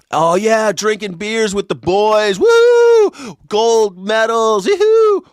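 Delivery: whooping party voice, woo and yee-hoo yelled high; partying FBI director. Retold or imitated. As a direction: ham up a drunk director partying with the boys, shouting woo. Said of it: "imagine that call, Kashyap Patel".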